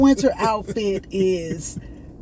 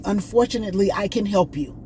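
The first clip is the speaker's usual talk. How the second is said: put-on light Indian accent. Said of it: "I'm trying to talk to y'all at the way he was talking".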